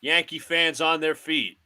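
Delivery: broadcaster cadence, calling each pitch; mock radio play-by-play of a Yankees game. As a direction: call the game like a TV announcer.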